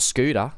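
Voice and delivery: scooter said as "scooda"; contrasting "scooter" with a D sound; T softened to D. Shown as a demonstration. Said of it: "you replace T's with D's".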